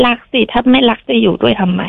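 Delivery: crying through the husband's words; tearful. Real, not acted. Hurt wife quotes her husband's cold reply, crying. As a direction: voice breaking into real tears.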